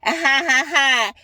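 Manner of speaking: a hint of a gloating, taunting laugh; mild imitation of the rival's gloating laugh; mocking laugh. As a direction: lightly mimic her smug cackle. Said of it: "she took it as".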